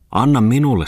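high, loud begging demand; acted insistent plea, swooping up; demanding beggar. A narrator's reading. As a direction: beg boldly and high. Third beggar demands the scarf.

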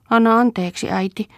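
put-on high, tearful plea of a small boy; sobbing boy. The boy begs his sick mother's pardon, sobbing. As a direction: choke out the apology through sobs. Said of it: "poju nyyhkytti".

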